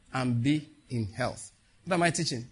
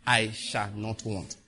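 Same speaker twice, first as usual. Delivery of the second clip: slow, lower confession of faith; prayer declaration; 3 semitones lower, slower than usual. Shown as a demonstration. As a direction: declare the psalm slowly and firmly.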